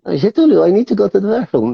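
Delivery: a hint of an old puppet; lightly voiced old grandpa. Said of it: "O cara só quer ir no banheiro".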